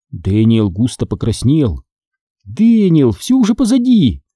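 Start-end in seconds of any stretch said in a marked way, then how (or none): 2.4-4.2 high-pitched comforting words; reassuring. A narrator's reading. Sister calming her frightened brother, reassuring. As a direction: reassure a scared child. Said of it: "успокоила я".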